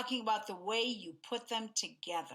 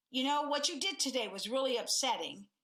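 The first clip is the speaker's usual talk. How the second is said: charged tone; 3 semitones higher than usual. Shown as a demonstration. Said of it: "both are tone as compared to".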